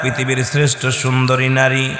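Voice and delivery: ordinary delivery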